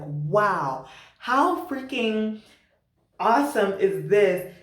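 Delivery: slow, savoured wonder; retold amazement. Recalling her surprise at the cacao ceremony, slow amazement. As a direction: marvel at it, stretching out the words.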